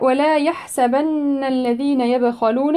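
slow measured tajweed recitation; Quran recitation. Shown as a demonstration. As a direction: recite it with tajweed, stretching the vowels.

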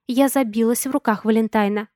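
usual speaking voice

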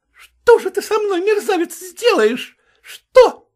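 high, loud taunting; furious taunt. Acted. Vasilisa daring the cook, loud. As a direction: dare him, furious.

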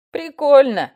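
протяжно и громко, высоко; тянет слово с издёвкой; drawn out. A narrator's reading. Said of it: "протянула Коткина". (протянуто, насмешливо)

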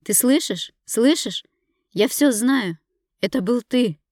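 high, loud and desperate; furious screaming. Acted. Wife screaming at the husband who hurt her, furious. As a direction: scream the accusation at him.

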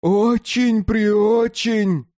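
put-on slow, drawn-out childish plea; pleading child. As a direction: stretch it out begging. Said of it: "Умоляюще протянул руки".

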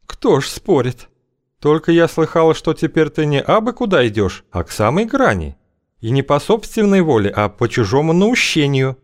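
high, sly woman's voice. Acted. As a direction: purr it, way up high. Feodosia's voice held.

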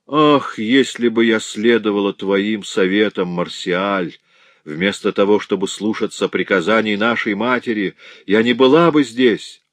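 loud, anguished wail of regret; heartrending cry. Acted. Сестра в отчаянии кается перед братом, надрывный крик. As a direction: cry it out in despair. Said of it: "воскликнула душераздирающим голосом тыква".

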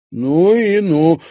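loud, high, slow amazed outburst; a girl amazed by the footage; unable to hold back. A narrator's reading. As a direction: let the astonishment burst out. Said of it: "не сдержалась Луиза".

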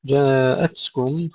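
جاءتكم with puffed ت, no bounce; whispered ta. Shown as a demonstration. Teacher modelling for students, breathy ta in جاءتكم. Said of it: "همس التاء أيضًا لا نقلقلها".

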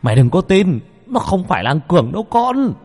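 urgent warning. Acted. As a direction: forcefully order a student not to believe it. Teacher grabs him, urgently warns.

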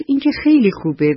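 put-on quick, high, delighted boy voice; excited boy. Boy answers the old man's invitation, eager and quick. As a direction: blurt it out, thrilled at the idea.

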